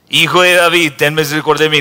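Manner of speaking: loud insistent cry. Acted. Blind man shouts louder.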